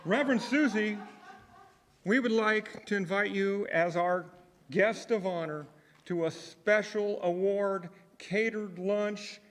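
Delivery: excited. Real, not acted. Announcing party, raised voice.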